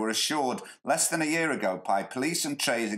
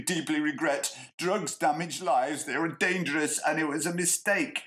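high, earnest mock apology; mock remorseful politician; 4 semitones higher than usual. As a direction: read it like a sorry politician. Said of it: "he told the Daily Mail".

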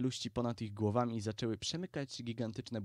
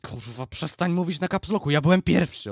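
very loud, higher-pitched protest; indignant shouting; 5 semitones higher, 13 dB louder than usual. A narrator's reading. Zaraza objects to the Baron's caps-lock talk, indignant shouting. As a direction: yell it in outrage. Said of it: "oburzył się Zaraza".

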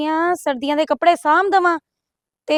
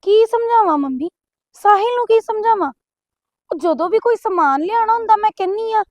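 higher-pitched, plaintive protest; exasperated daughter, pitched up; helpless complaint; 4 semitones higher than usual. Acted. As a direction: explain helplessly to a pushy mother. Daughter pleads helplessly with mother.

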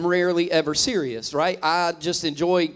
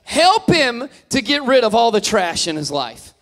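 wife's prayer; 4 semitones higher, 5 dB louder than usual. Retold or imitated. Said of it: "She said".

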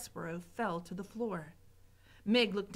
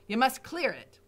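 bossy cook; 4 dB louder than usual. Acted. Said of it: "said Cook".

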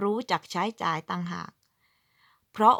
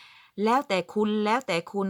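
slow casual quote; slower than usual. Retold or imitated. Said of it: "พูดอย่างติดปาก".

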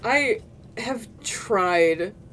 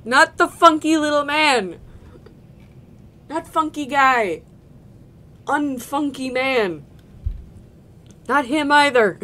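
louder frustrated shouts; exasperated calling out; 3 semitones higher, 5 dB louder than usual. Real, not acted. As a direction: call each one out in mock despair. Calling out while searching.

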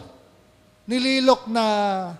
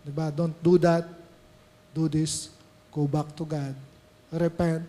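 gentle inner voice; 4 semitones lower, 4 dB quieter than usual. Retold or imitated. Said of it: "sasabihin sa atin ng Holy Spirit".

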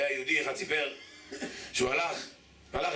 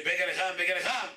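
mild hawker's call, rising in pitch; half-strength singsong vendor cry; imitated vendor's cry; 3 semitones higher than usual. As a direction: lightly mimic a street seller calling. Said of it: "שהייתי צועק".

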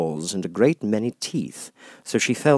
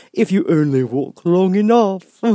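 grinning Cheshire Cat; 11 semitones higher, 8 dB louder than usual. Acted. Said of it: "said the cat".

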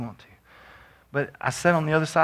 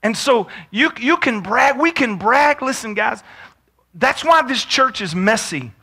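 raised, emphatic pulpit voice; higher-pitched, punchy sermon delivery; preaching; 10 semitones higher, 7 dB louder than usual. Real, not acted. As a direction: preach it with insistence to the room. Preacher presses the congregation.

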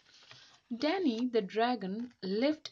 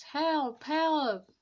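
high, louder panicked yelps; robbers crying help; 7 semitones higher, 6 dB louder than usual. Acted. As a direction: squeal for help while fleeing. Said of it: "they cried".

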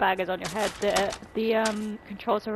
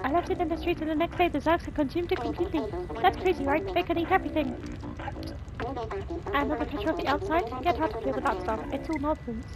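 slightly higher-pitched voice for a game character; lightly voiced game character; 4 semitones higher than usual. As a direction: read the character's lines a bit higher. Reads game character's dialogue.

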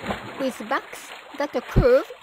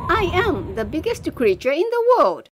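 proud. Acted. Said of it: "answered with pride".

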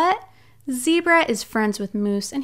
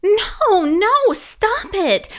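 loud, drawn-out mock scolding no; playful scolding; 8 semitones higher, 6 dB louder, much slower than usual. Reader mock-scolding Moose for ruining the book, loud. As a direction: tell the cheeky moose off, half-joking.

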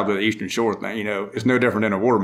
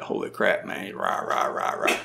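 mock own accent; 2 semitones lower, 6 dB quieter than usual. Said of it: "until I listen to this".

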